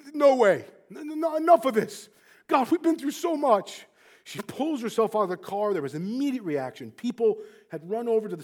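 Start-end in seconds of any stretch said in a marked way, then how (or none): 0.1-3.9 high, loud plea to God; retold panicked protest. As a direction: imitate a mother refusing to accept it. Mother panics after the crash.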